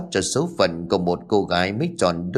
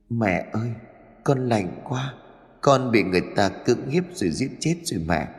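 mournful, subdued plea to a mother; sobbing. Acted. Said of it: "khóc nức nở".

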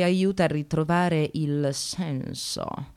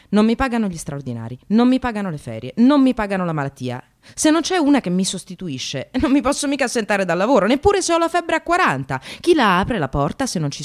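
growing indignation; 3 semitones higher, 4 dB louder than usual. Acted. Precarious receptionist rants about her job, rising anger. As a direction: pile up the grievances, getting louder.

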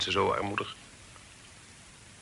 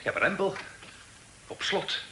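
surprised; 9 semitones higher than usual. Acted. Guest finds the door locked.

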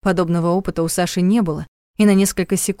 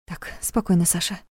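hushed self-talk, softer; trying to calm herself; 7 dB quieter than usual. A narrator's reading. Trapped girl calms herself, hushed and shaky. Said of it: "велела она себе".

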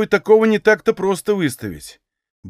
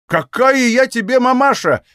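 higher, indignant outburst; flaring up; 6 semitones higher than usual. A narrator's reading. Mother snaps at her son's killer, indignant. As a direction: flare up at the insult. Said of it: "вспыхнула Ильинична".

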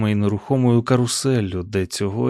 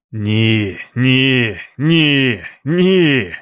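piercing wail; 5 dB louder, much slower than usual. A narrator's reading. Roland crying out in terror at the bonfire, rising wail. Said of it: "Роланд пронизливо заволав".

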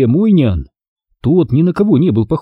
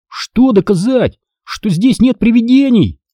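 angry reply; 10 semitones higher than usual. Acted. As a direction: snap back in annoyance. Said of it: "Зло ответил я".

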